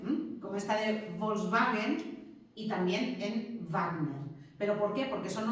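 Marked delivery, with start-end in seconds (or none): 1.2-2.3 "Volkswagen" with the W said as a V, "volsvaguen"; W como V. Shown as a demonstration. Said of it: "Y como V". 3.7-4.2 "Wagner" said "Vagner", W as a V; slow "Wagner" opening on a V sound; W como V. Shown as a demonstration. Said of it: "Y como V".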